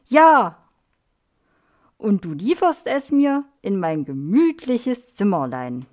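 a touch of stern strictness, the first word punched loud. Acted. Frank sternly giving Melanie her punishment, mildly stern. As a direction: play at being strict like the teacher. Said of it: "sagt Frank streng".

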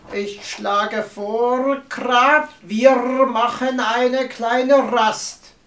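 drawn-out, slow role voice; slowly, to smooth things over; slow raven voice. Acted. Raven changes subject.

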